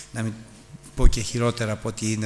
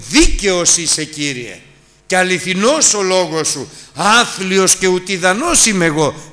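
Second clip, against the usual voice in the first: repentant prayer; 6 semitones higher, 8 dB louder than usual. Acted. Job's repentant prayer, quoted.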